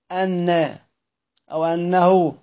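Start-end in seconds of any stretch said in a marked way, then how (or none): 0.1-0.8 أن begun afresh on a glottal stop, "anna"; starting on the hamza. Shown as a demonstration. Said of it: "والبدء بالهمزة". (أن بالبدء بالهمزة)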